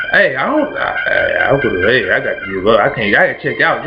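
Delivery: low, defeated Job voice; Job giving up. Retold or imitated. Job telling God he has to check out, low and defeated. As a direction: drop low and sound beaten down.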